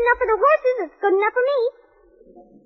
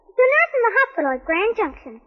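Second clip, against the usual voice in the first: tearful catch. Acted. Girl tells of grandma's letter.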